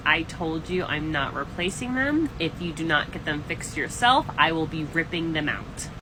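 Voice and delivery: landlord calmly telling the tenant the rule. Retold or imitated. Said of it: "I very calmly said".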